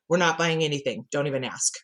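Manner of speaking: lightly voiced mom laying down the law; a hint of no-nonsense parent; annual mom speech. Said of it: "did my annual mom speech".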